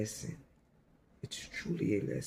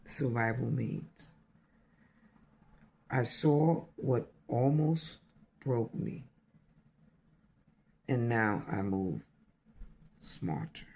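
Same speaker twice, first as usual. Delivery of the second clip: repeated poem line. Real, not acted. Repeating the poem's key line for listeners, deliberate recital. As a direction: space out each phrase, sinking to the last word. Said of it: "Let's say that again".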